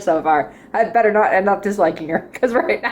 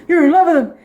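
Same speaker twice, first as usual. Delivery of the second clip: higher, teasing overstatement with a laugh; mock lovey-dovey; 5 semitones higher, 4 dB louder, faster than usual. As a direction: tease it as a grand romance. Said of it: "She's not like".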